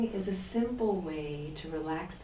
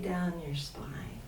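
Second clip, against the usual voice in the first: whispering; 2 semitones lower, 6 dB quieter, slower than usual. Acted. Soft meditation cue.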